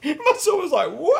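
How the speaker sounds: high, loud, helpless laughing; howling laughter. Real, not acted. Laughing about his son's reaction to the bass, helpless laughter. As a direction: lose it completely at the punchline. Punchline of horsefly story.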